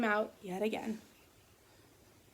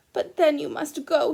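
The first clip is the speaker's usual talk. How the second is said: sniffling; 4 semitones higher, 6 dB louder than usual. Acted. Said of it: "he sniffled".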